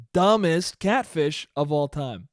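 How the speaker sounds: DUMBEST punched, then slowed right down; slow verdict with weight on "Dumbest"; slow, emphatic. Real, not acted. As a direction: stretch it out, leaning on "Dumbest". Repeats the mockery, slowed down.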